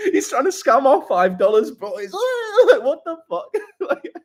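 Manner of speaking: high, breathless laughter; real laughing fit mocking the critics; laughing hard. Real, not acted. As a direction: laugh through every word.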